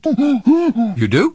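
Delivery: laughing delight at a willing pantomime partner. Acted. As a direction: burst out with glee.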